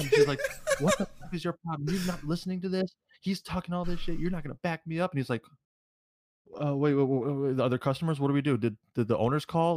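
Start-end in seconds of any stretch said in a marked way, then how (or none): 0.8-5.1 higher-pitched mock indignation; angry retelling. Angry coworker confronting her boyfriend for not backing her up, higher-pitched indignation. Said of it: "She gets mad because she thinks". 6.6-9.8 stammering, slightly louder mock confusion; imitated bewilderment. Clueless boyfriend asking what he missed at work, imitated flustered questions.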